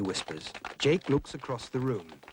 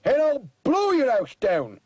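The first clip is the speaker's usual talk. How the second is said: rising, louder, huffing wolf threat; threatening wolf; 6 semitones higher, 4 dB louder than usual. Acted. Boy as wolf threatening the pig, building louder. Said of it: "says Harry the wolf".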